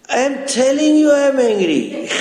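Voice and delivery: high, quick mock-angry outburst; dramatized rising anger. Disciple contradicting Swami a second time, escalating mock anger. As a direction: let the pitch climb sharply as you insist. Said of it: "The voice goes up slowly".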